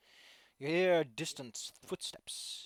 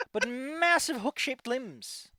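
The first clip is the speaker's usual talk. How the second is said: high, loud laughing words; 10 semitones higher, 9 dB louder, slower than usual. Real, not acted. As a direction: laugh through the line. GM laughs describing sexy monster.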